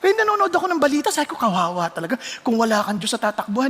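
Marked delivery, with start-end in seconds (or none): 1.4-3.7 pitying, near tears. Retold or imitated. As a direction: lower and softer, full of pity. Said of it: "naiiyak ako".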